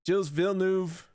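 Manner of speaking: Gilles Villeneuve in flat American vowels; standard American accent. Shown as a demonstration. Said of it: "I didn't plug my nose".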